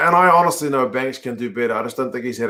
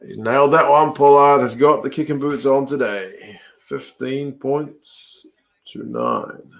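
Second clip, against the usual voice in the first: live score call; slower than usual. Real, not acted. Commentator announcing Pollard's kick and new score, drawn-out play-by-play. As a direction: announce the score slowly, dropping at the end.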